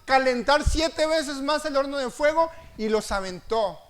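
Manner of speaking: loud, driving sermon voice; full-voiced preacher building up; fiery preaching. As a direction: preach it out with force.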